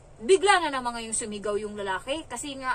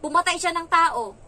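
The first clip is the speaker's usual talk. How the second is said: loud, higher-pitched accusing outburst; mimicked child's accusation; 5 semitones higher, 7 dB louder than usual. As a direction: act out a kid making wild charges. Child's retold wild accusation. (ginagayang pagbibintang ng bata)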